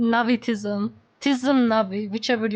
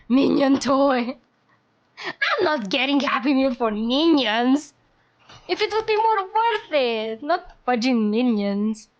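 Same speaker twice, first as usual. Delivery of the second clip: exasperated complaint; indignant; 2 semitones higher than usual. Real, not acted. Outraged at Minions toy.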